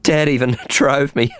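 a giggle breaking into the line; a bright girlish laugh woven into the words. Acted. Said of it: "with a girlish laugh".

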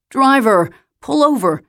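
high, loud call to the driver; urgent call. Acted. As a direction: call out to make him stop. Alice demands the driver stop.

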